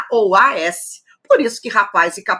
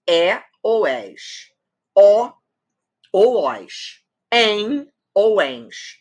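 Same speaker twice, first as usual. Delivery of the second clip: ditado lento; 2 semitones higher, much slower than usual. Shown as a demonstration. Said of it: "Olha só".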